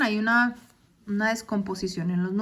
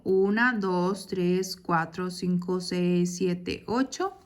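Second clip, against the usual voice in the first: counting syllables; 4 semitones lower, 3 dB quieter, slower than usual. Shown as a demonstration. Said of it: "¿Y cuántas sílabas tengo?".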